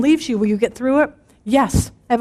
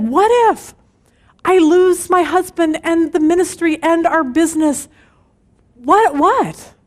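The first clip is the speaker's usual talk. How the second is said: anxious mock questioning; 5 semitones higher than usual. Playing fear to the end.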